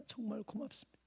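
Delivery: fading hushed thanks; near-whispered thanks. Retold or imitated. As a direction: barely breathe "정말" with a slight rise. Hugging the weeping elder.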